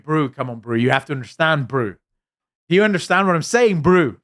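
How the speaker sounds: put-on South African accent, pitch climbing at the end; imitated South African accent. Mocking locals who keep saying brew, imitated South African accent. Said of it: "I hate that accent".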